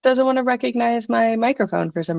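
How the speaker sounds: thin headset mic sound; talking through earbud microphone. Real, not acted. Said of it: "the microphone I'm actually using is my headphones microphone".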